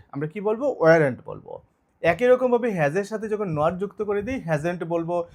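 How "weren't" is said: ওয়ারেন্ট said as one word, the were and not joined; contracted pronunciation. Shown as a demonstration. Teacher answering her own question for the class, joined contraction. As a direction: model ওয়ারেন্ট as a single word. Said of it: "এটাকে বলবো ওয়ারেন্ট".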